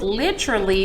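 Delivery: "literally" said as LIT-truh-lee; "literally" as if spelt with T-R-E; mispronunciation demo. Shown as a demonstration. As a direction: run the T into the R in "literally". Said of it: "then it would be T R E".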